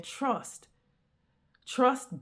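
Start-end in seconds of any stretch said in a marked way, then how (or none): 0.0-0.7 softly, a quiet divine word; God's soft voice. Retold or imitated. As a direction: say it softly as God's calm command. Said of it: "God is saying".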